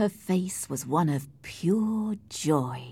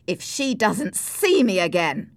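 louder, urgent outcry; raised voice, insistent; impassioned cry; 3 semitones higher, 5 dB louder than usual. Acted. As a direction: cry out in protest. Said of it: "cried Heathcliff".

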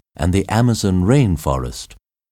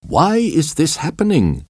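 mild scream; 9 semitones higher than usual. A narrator's reading. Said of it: "he screamed at John".

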